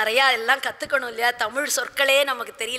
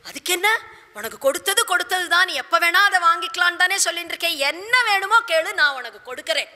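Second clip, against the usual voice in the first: quick, higher-pitched willing promise; acted king's hurried assurance; eager assent; 5 semitones higher, faster than usual. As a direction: rush to grant whatever is asked. King eagerly grants her request.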